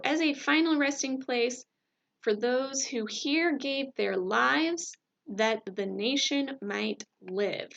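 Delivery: slow, solemn speech read aloud; oratory reading. Acted. Teacher reciting the Gettysburg Address to the class, solemn and slow. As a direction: read it like Lincoln at the podium, slowly.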